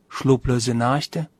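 slow, baffled echo of "Schlaflose Nächte?"; puzzled echo. Retold or imitated. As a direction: repeat "Schlaflose Nächte?" slowly, dumbfounded. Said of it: "fragt er ganz verdutzt". (verdutzt und langsam nachgefragt: "Schlaflose Nächte?")

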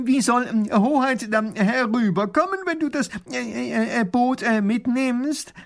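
high, loud hesitant stammer; stammering professor. A narrator's reading. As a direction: fumble for the question nervously. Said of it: "fragt Pfiffikus". (stotternder Professor)

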